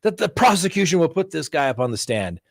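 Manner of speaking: mock-outraged courtroom objection. Attorney protesting to the judge, outraged. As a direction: protest loudly like a wronged attorney.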